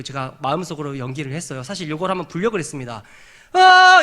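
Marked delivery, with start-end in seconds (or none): 3.5-4.0 high, loud held "aah"; imitated trumpet blast. Preacher shows how the horn is to be blown, loud held blast. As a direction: sound one sustained horn note. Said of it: "이렇게 불라고 하신 겁니다".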